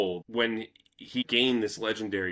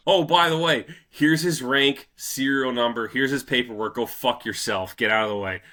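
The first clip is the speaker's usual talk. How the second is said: mock defiant soldiers; 3 semitones higher, 5 dB louder than usual. Soldiers mocking the British officer.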